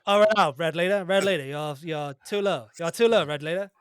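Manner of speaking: pilot cockpit headset. Pretend. Pilot radio talk.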